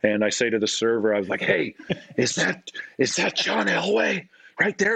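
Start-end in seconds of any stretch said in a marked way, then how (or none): 1.4-4.9 high, drawn-out excited question; excited high-pitched asking; starstruck. Retold or imitated. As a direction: reenact being giddily starstruck, pitched up. Asks server about celebrity, starstruck.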